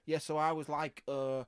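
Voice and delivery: put-on casual Scouse accent; chatty Scouser telling a tale; Batman. Batman chatting about his day, Scouse accent. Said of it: "are you Scouse Batman".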